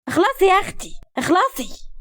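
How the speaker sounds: high, hurrying shout; loud call. A narrator's reading. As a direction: hurry someone in the next room. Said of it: "وكملت بصوت عالي". (نداء بصوت عالي للاستعجال)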